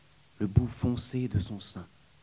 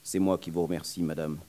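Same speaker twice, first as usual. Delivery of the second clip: lower, quick grateful reply with a laugh; 5 semitones lower, faster than usual. Acted. Young man thanking the nurse, lower and quick. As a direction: thank her with a sheepish laugh. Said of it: "d'un ton, euh, reconnaissant".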